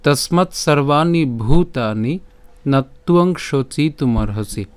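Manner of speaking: slow, measured Sanskrit verse recitation; deliberate chant-like reading with pauses between phrases; shloka recitation. Shown as a demonstration. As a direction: recite the verse slowly, stretching the long syllables. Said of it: "আজকের শ্লোকটি হলো".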